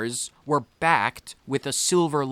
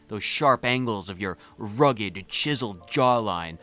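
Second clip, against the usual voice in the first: dramatic reading. Acted. Reads flirty dialogue dramatically.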